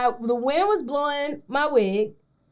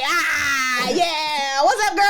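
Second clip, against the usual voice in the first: gushing greeting; much slower than usual. Retold or imitated. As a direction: greet an old college pal with too much eagerness. Acting out an eager greeting.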